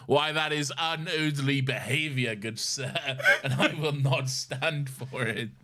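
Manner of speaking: hammed-up Southern gentleman's indignation; courtly Southern gentleman. Joking about unoodly behaviour, mock-affronted Southern gentleman. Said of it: "imagining just a courtly southern gentleman".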